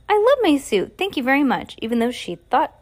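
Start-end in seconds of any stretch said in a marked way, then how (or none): 0.1-1.8 insincere thanks. Acted. Sunny pretending to love her suit, high and forced. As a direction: thank them with fake cheer. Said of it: "she didn't mean it one bit".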